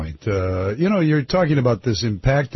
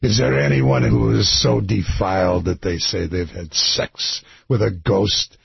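put-on preaching priest with a shaky grasp of Irish accent; Irish accent sounding Scottish; 3 semitones lower than usual. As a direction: challenge the parish in a Scottish-tinged Irish accent. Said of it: "your Irish accent is Scottish".

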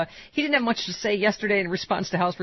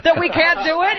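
mocking House Republicans; 11 semitones higher, 5 dB louder, slower than usual. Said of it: "The House Republicans are like".

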